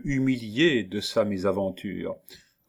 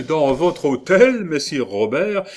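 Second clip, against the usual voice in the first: laughing; 7 semitones higher, 7 dB louder than usual. A narrator's reading. Cellini laughs at the provost's offer, amused rising question. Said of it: "dit en riant Benvenuto Cellini".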